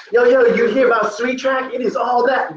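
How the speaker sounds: high-pitched, hammed-up street hype; hyped persuading. Teacher mimicking someone trying to convince you, high hyped voice. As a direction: sell it like an excited hype man. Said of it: "He's not, like, trying to convince you".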